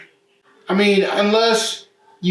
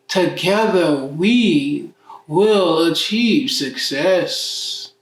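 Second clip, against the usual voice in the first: grand fatherly promise; slower than usual. Pretend. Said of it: "for us".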